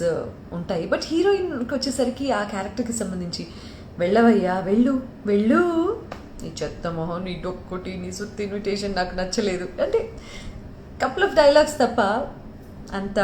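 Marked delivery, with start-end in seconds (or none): 4.0-9.7 heroine's film line. Acted. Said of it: "మీ favourite dialogue ఏంటి".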